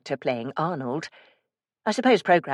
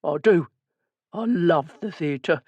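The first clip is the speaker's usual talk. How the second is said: reverent; slower than usual. A narrator's reading. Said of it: "with genuine reverence in his voice".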